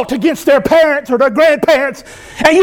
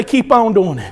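low, subdued, permissive brush-off; feigned indifference; 5 semitones lower, 4 dB quieter than usual. Acted. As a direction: let them carry on, voice dropped low. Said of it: "if I hated you, I'll say".

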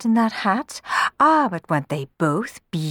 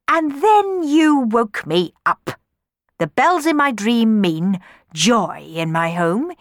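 grand, swelling storyteller voice; pompous father; 4 semitones higher, 4 dB louder, slower than usual. Acted. Don Magnifico telling daughters his dream, pompous. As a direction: boast about the dream.

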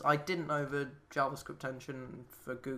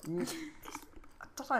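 high squeaky slow voice; slow, hint of a ten-year-old's squeak; helium voice; 11 semitones higher, 4 dB quieter, much slower than usual. Shown as a demonstration. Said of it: "that specific kind of high-pitched voice".

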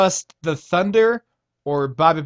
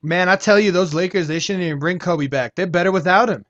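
put-on Californian accent. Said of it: "That was my Californian accent".

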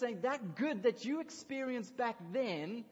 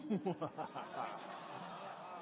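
villain laugh; 6 semitones lower, 5 dB quieter than usual. Shown as a demonstration. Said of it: "give me your best villain laugh".

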